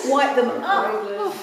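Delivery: high, slow sweeping call; high slow wipe. Shown as a demonstration. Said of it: "start today by just ... wiping away our worries by going".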